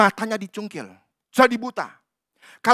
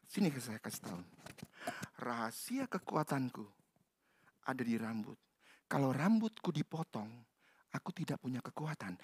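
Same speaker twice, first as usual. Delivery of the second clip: much softer, secretive telling; confiding hush; 7 semitones lower, 14 dB quieter than usual. Acted. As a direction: whisper the secret close.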